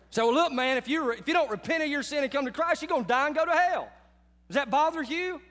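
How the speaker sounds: puffed-up, pushy challenge, played back for laughs; bowed-up confrontation. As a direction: imitate yourself squaring up to preach hellfire. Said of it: "drop my brow down at 'em like this".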